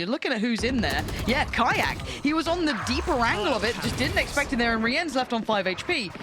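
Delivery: quick live play-by-play; esports caster. Acted. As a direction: call the round as it happens.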